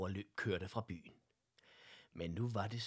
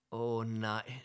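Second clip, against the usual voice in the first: disappointed sigh; 6 dB louder than usual. Acted. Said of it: "sukkede frøken Hørup skuffet".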